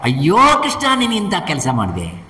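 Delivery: high cry of dismay, then dropping; acted wail. Hunter Jara laments to Krishna, acted wailing. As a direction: wail in mock anguish, starting very high. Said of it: "ಅವನು ಬಂದು ಗೋಳಾಗ್ತಾನೆ".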